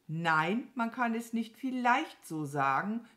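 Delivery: bestimmter Widerspruch; energisch. A narrator's reading. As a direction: energisch dagegenhalten. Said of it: "widersprach Mama Mu energisch". (energisch widersprechend)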